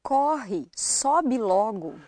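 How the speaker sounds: "Corre, sobe logo" with open aw in each stressed o. Shown as a demonstration. Brazilian modelling the line for learners, open o in "Corre, sobe logo". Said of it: "Every one of them is that ah sound".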